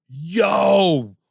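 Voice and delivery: acted awestruck outburst; amazed exclamation. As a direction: act out being blown away by a performance. Acts out an amazed reaction.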